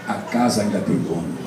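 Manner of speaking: low, soft, almost to himself; a quiet low refrain; low murmur. Acted. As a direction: drop it low and hushed before building. Repeated refrain, first take.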